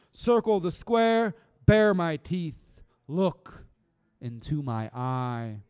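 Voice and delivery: slow, punchy poetry reading; defiant spoken word delivery; spoken word poem. Acted. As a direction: stand tough in every line.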